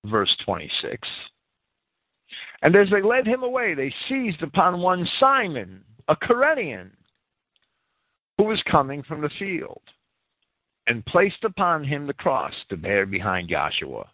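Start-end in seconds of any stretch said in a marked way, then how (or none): 2.6-14.1 higher-pitched reading of a Gospel passage; scripture reading. Acted. Teacher reading Matthew's account to listeners, scripture reading. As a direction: read the verses out, pitched up, phrase by phrase. Reads verse twenty-six aloud.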